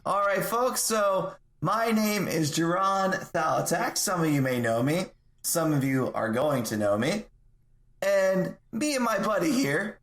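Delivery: lightly performed rallying speech, deliberate pacing; measured tavern oration; in-character speech. Acted. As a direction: address the crowd as a self-introducing speaker. In-character speech to bar crowd.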